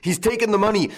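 very high outcry, falling at the end; bellowed alarm. A narrator's reading. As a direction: raise the alarm as an exclamation. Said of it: "bellowed old Goussot".

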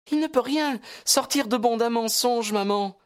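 high, assured daughter's voice; clear and assured. A narrator's reading. Daughter urging her mother to be honest, clear and assured. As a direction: speak up clearly and surely, pitched high. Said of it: "dit-elle d'une voix claire et assurée".

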